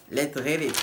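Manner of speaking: English with a French accent. Real, not acted. Vlogger switching to the English notice, accented English. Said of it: "mon accent est un peu bizarre".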